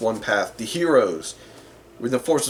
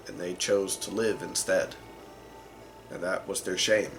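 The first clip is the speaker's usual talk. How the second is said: somber story narration; 2 semitones lower, 5 dB quieter than usual. Acted. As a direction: let the tragic tale settle into long pauses. Game master muses on heroes' tragedy.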